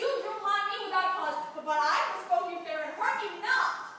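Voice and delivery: high, loud distressed denial; loud protest. Acted. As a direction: cry out that you did no harm. Wrongly accused, protesting.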